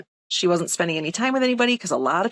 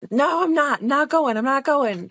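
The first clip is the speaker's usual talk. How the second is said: defiant refusal; 7 semitones higher than usual. Retold or imitated. Aunt refusing, belligerent.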